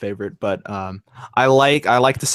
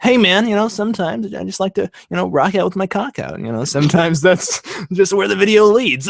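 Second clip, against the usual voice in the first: rival reviewer voice; 3 semitones higher than usual. Pretend. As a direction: play the lazy rival reviewer. Voicing Zanzibar character.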